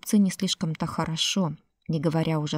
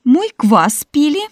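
slow, loud, high wail; wailing lament; 9 semitones higher, 10 dB louder than usual. Acted. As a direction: drag out the wailing complaint. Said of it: "причитала Марфа".

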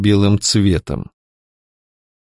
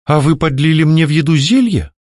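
feigned innocent surprise, pitched up; mock surprise; 5 semitones higher than usual. Heroine innocently asking captor about the potion, mock surprise. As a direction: bat your eyelashes in fake surprise. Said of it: "удивлённо похлопала я ресницами".

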